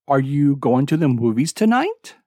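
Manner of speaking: yes-no question ending on a rise; rising intonation. Shown as a demonstration. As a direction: lift your voice at the end. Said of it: "Did you hear my voice lifting".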